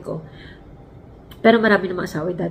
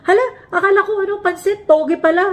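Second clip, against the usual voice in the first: laughing; 10 semitones higher than usual. Retold or imitated. Laughing at own mistake retold.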